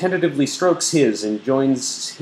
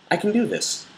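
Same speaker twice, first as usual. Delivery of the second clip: mock pep talk; 11 semitones higher than usual. Hammed-up self-pep talk.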